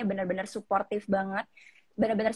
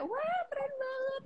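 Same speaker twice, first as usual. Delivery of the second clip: soft, very high mock squeal; imitating excited reaction; 5 dB quieter than usual. Finalist imitating relatives on the phone, small excited squeal. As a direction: squeal it in admiration, keeping it small. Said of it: "dari reaksinya cukup heboh semua".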